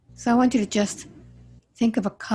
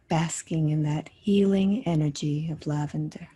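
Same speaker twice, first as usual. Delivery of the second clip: guided meditation. Acted. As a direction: guide them gently through the imagery, unhurried. Guides a healing visualization.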